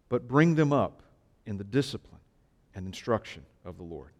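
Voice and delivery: measured, declaiming Bible reading; scripture reading. Acted. Pastor reading Ephesians six to the congregation, solemn. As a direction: read the verses out with weight.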